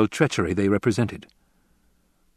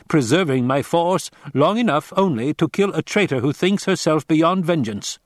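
put-on raised, tense voice of a tired old soldier; weary commander Hawat; 6 semitones higher than usual. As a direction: press the stranger for help.

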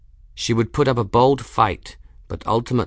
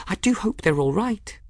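very high, small character voice; whispering to crystal; 12 semitones higher than usual. A narrator's reading. Folly worries over her crystals, in a high, small voice. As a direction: fret in a tiny high voice. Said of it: "she whispered".

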